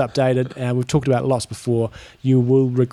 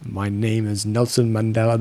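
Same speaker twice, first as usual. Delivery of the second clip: lightly put-on South African accent, slow; mock South African voice on request; a hint of a South African Mandela; 3 semitones lower than usual. Shown as a demonstration. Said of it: "Say a sentence".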